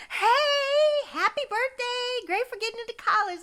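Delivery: high, loud, bright-sounding greeting at speed; chirpy cameo voice. Retold or imitated. Shay recording paid cameos on her phone, peppy and fast. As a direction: rattle off a peppy celebrity shout-out. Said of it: "on her phone going".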